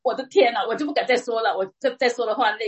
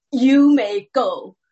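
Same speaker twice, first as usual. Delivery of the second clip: slow, louder, drawn-out judge voice leaning on may; mock judge dismissal; 6 dB louder, much slower than usual. Judge dismissing the woman in court, slow and louder. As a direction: play the judge waving her off, slowly. 讲了三次.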